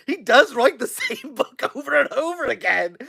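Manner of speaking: laughing through the words. Real, not acted. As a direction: giggle while ranting. Laughing while complaining.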